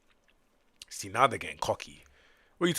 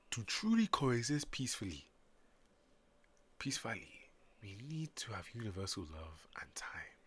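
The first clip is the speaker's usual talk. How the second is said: put-on African accent; 8 dB quieter than usual. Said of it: "I made the Sumerians African".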